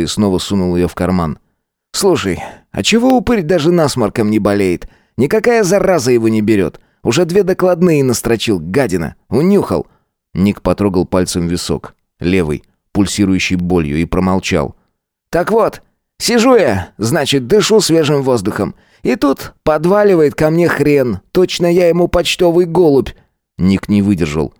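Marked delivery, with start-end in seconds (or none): 1.9-9.9 high brash schoolboy voice; cocky teen Gvozd. A narrator's reading. Schoolboy bully accosting Nik in the yard, cocky. 15.3-23.1 high brash schoolboy voice; cocky teen Gvozd. A narrator's reading. Schoolboy bully accosting Nik in the yard, cocky.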